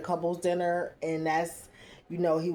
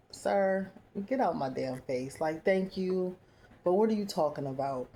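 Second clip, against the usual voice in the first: mock dismissive; 4 dB quieter than usual. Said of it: "you could say it like".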